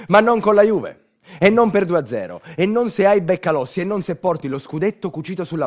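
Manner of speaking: indignant outburst. Acted. Indignant narrator rejects the defeat.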